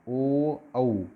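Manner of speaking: ओ then औ drawn out from the throat with rounded lips; vowel demo. Shown as a demonstration. Teacher modelling ओ and औ for students, lips rounded. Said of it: "ओष्ठ आपके गोल गोल हो रहे हैं".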